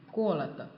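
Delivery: 过了的 stressed on the first syllable, like го́род. Shown as a demonstration. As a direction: lean on the opening of 过了的, then fall. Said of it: "重音在这个о上面".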